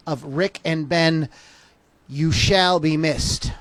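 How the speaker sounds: slow, measured tribute read; solemn show intro. Acted. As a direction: announce it like a memorial dedication.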